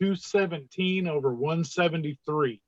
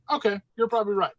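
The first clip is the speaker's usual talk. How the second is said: quick, high-pitched concession; retold meek agreement; 5 semitones higher, faster than usual. Patient reassured by his surgeon, meekly agreeing. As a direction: give in fast in a smaller, higher voice.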